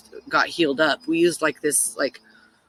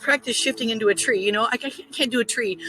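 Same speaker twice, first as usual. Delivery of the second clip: higher-pitched flustered protest; mock-frantic self-doubt, pitched up; retold panic; 6 semitones higher than usual. Storyteller stuck inside a tree unpractised, flustered panic.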